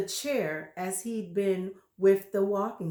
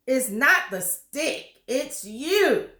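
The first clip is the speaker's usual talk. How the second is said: horrible grin; 4 semitones higher, 5 dB louder, slower than usual. Acted. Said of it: "grinning horribly".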